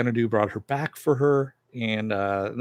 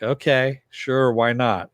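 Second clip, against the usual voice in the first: casual agreement; 2 semitones higher, 5 dB louder, slower than usual. Retold or imitated. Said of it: "Maria's like".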